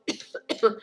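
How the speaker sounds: airy cough after swallowing wrong; breathy cough. Real, not acted. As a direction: cough to clear the throat. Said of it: "j'ai avalé de travers".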